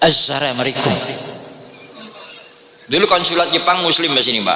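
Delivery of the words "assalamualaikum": Assalamualaikum said as asaramariku, l turned to r; mock Japanese accent. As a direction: imitate a Japanese speaker's Assalamualaikum. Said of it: "nggak bisa ngomong assalamualaikum".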